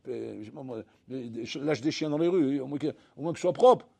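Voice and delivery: nagging God to clean up the street; mock complaining worshipper. Worshipper nagging God to fix the street, whiny.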